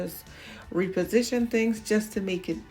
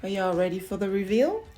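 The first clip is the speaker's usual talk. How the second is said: excited, quick and louder; gushing makeover reveal; 4 dB louder, faster than usual. Real, not acted. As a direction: build hype for the big reveal. Announcing the fridge reveal.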